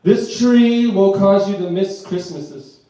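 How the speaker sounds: slow, loud reading of a label; mock label voice, drawn out; mock warning label. Shown as a demonstration. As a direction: read it like an ominous warning sticker. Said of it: "on the warning label".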